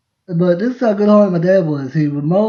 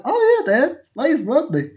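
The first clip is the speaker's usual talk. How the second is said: cocky boast; 9 semitones higher than usual. Retold or imitated. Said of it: "And I'm like".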